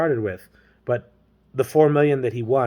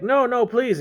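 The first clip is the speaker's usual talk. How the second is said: mock pleading; 10 semitones higher, slower than usual. Voices James pleading.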